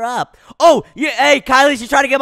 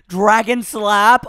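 dramatic announcement; much slower than usual. Pretend. Announcing move slowly.

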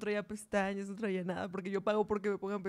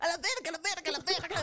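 imitating Lando; 5 semitones higher than usual. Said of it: "No, eso no".

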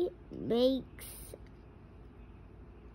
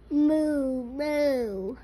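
cow moo; 4 dB louder than usual. Shown as a demonstration. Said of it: "He can go".

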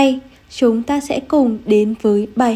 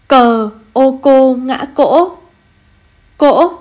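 slow spelling then reading; slower than usual. Shown as a demonstration. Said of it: "cùng cô đánh vần và đọc trơn".

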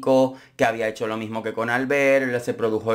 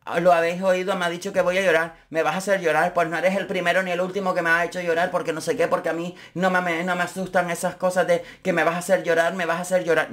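mock dramatic complaint; 5 semitones higher than usual. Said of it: "¿en qué lo convirtió Susana?".

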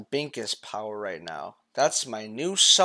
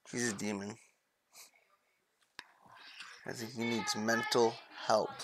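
hushed whisper; 7 dB quieter than usual. Real, not acted. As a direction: whisper it as if he might hear. Scared aside about child.

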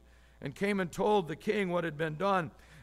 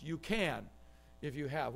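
dictated softly; 5 semitones lower, 9 dB quieter than usual. Shown as a demonstration. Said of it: "Just fill in those blanks".

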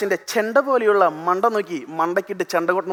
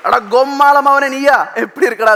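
laughing greeting; 5 semitones higher, 3 dB louder than usual. Retold or imitated. School friend greeting him by his father's name, laughing. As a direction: shout it through a laugh.

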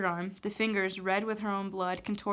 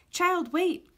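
high, loud witch's call; 9 semitones higher, 6 dB louder than usual. A narrator's reading. Witch calls the fleeing girl back, high loud call. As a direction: fling it after her, high and loud. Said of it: "called the witch".

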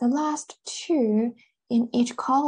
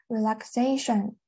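"relaxation" with main stress on -xa-; stress shifted later. Shown as a demonstration. Teacher showing how a suffix moves stress, "relaxation" stressed on -xa-. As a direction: lean on the third syllable of "relaxation". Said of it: "这个重音是往后移了".

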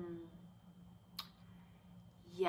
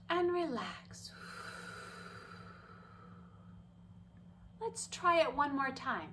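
calming breath demo; 4 semitones higher than usual. Shown as a demonstration. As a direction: lead the kids through a calm breath. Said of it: "Do it with me".

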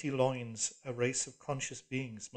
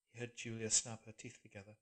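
usual speaking voice

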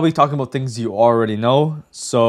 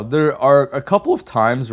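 voice crack; 2 semitones higher, 3 dB louder than usual. Real, not acted. Tutorial host listing the exceptions, voice cracking. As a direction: voice cracking by accident.

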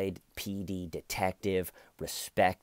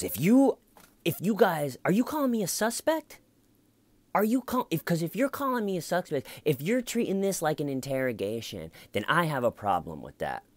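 much higher and louder, defensive and accusing; indignant outburst; 10 semitones higher, 4 dB louder than usual. Retold or imitated. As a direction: snap back like a cornered suspect. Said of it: "she cuts him off".

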